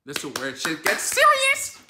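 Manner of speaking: slow, loud dramatic build-up; excited. Real, not acted. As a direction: lean in, savour the suspense. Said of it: "I'm getting excited".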